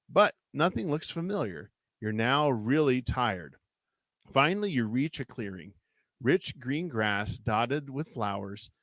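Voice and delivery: measured read-aloud storytelling; story narration. A narrator's reading. Reading a choose-your-path adventure aloud to a co-host, story narration. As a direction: narrate an adventure, lingering on the suspense.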